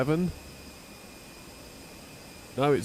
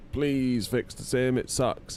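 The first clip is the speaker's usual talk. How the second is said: slow, higher whiny plea; hammed-up slow begging; mock pleading; 5 semitones higher, much slower than usual. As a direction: beg like a fed-up user. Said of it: "we were like".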